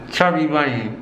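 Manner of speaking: mouth full. Real, not acted. Chubby Bunny game, mouth stuffed.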